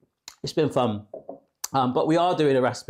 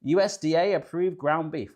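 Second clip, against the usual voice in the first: lightly put-on English farmer rapper voice; a hint of hammy rapper impression; 2 semitones higher than usual. Host resumes reading the recipe, mildly faked rapper voice. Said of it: "a rapper impression in an English farmer voice".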